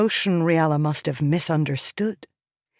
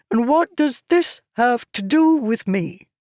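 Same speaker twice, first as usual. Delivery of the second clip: higher, louder impatient demand; intolerant; 8 semitones higher, 4 dB louder than usual. A narrator's reading. Tyrell impatiently demands what this has to do with him. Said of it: "Tyrell asked intolerantly".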